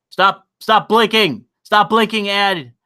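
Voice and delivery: loud, exasperated stop; annoyed yelling. Real, not acted. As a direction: snap at the ad to stop. Yelling at blinking ad.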